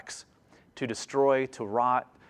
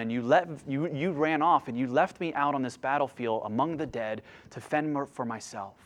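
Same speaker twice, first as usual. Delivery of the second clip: psalmist's lament; 3 semitones lower, 4 dB quieter than usual. Retold or imitated. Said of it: "Here's what he's saying".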